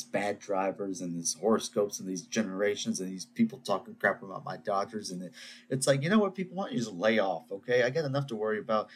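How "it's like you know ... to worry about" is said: telling them off, half joking; worked-up rant. Real, not acted. Host scolding Braves fans over Dodgers talk, exasperated. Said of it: "I'm all worked up now".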